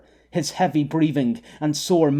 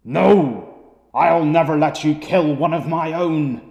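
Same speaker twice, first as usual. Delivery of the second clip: defiant shout; 4 dB louder than usual. Acted. Michael refuses Flicker forcefully.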